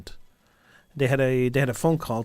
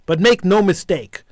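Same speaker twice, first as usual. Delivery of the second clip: steady official reading of a joint declaration; formal statement read. Acted. Radio host reading the leaders' joint statement on air, formal.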